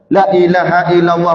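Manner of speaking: angry dhikr exclamation. Retold or imitated. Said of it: "Bila dia marah, dia sebut apa?".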